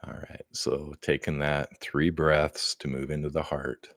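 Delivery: soft, calm breathing guidance; guided meditation. Acted. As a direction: lead them gently into the heart.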